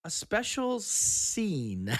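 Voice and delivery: slow and high on special; excited. Real, not acted. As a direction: tease the big reveal. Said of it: "this makes me so excited".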